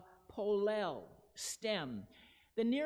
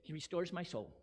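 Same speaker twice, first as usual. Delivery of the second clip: flat quiet reading; 4 semitones lower, 6 dB quieter than usual. Shown as a demonstration. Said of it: "We read it and it says".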